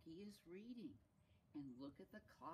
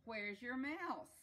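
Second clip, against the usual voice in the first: loud, high, drawn-out question; curious character; 7 semitones higher, 9 dB louder, slower than usual. Acted. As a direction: stretch the question out, raised and loud.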